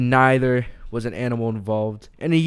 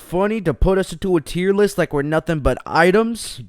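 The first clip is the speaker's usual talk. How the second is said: higher, indignant cartoon rant; cartoonish fury; 5 semitones higher than usual. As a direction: rant like an offended cartoon hick. Florida man confronts the host.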